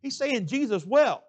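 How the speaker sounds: a preacher's high, slow and loud declaration; emphatic retelling. Retold or imitated. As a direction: proclaim it slowly to the crowd. Preacher replays the bullies' scene.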